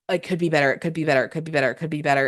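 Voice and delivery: repetitive self-talk, speeding up; nagging inner loop, gathering speed; perfectionist looping. Acted.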